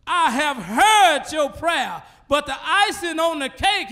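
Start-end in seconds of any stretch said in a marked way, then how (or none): 0.1-2.0 slow quote. Acted. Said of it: "he says".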